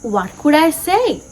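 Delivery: measured poem reading with lightly lifted pitch; gently expressive classroom verse reading; poem recitation. Acted. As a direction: recite it line by line, pausing between phrases.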